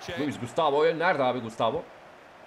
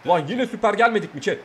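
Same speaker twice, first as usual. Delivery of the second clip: excited shout; 6 semitones higher, 6 dB louder than usual. Real, not acted. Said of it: "yine chat diyorum".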